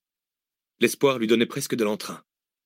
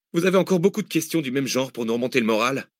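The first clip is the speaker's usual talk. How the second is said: dry mock complaint, raised pitch; sarcastic fugitive; 4 semitones higher than usual. Fugitive mocking the gloomy questions, dry sarcasm. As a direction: needle him about his gloomy questions.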